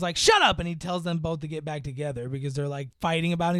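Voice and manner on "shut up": mock shout. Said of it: "just goes".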